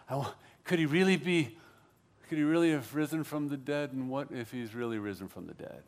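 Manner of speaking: hushed wondering. Acted. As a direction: wonder it quietly to yourself. Imagines Peter's hushed dawning realisation.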